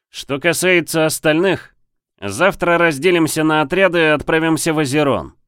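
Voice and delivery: loud, high commander address; roaring rallying speech. A narrator's reading. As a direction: project it to the troops. Commander gives orders.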